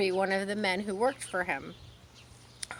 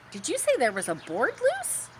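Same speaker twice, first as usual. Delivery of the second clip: timid pig voice; 7 semitones higher than usual. Acted. Wilbur asks goose.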